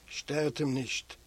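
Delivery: slow, hushed pleading; slow plea. Acted. Prisoner begging the others to leave him be, slow. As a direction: draw each word out gently.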